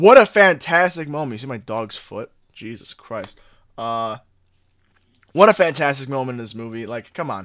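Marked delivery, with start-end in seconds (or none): 0.0-1.3 very loud, high, all-out outburst. Speaker praising a moment in the movie, very loud. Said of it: "I'm sorry, I'm being very loud".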